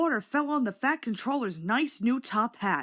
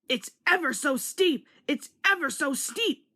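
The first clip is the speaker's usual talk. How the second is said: higher, chugging strain up the hill; puffing uphill; 6 semitones higher than usual. A narrator's reading. James straining up the hill, higher puffing chant. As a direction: puff the words out in rhythm. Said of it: "puffed James".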